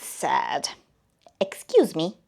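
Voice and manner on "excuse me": firm voice. Acted. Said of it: "in a firm voice".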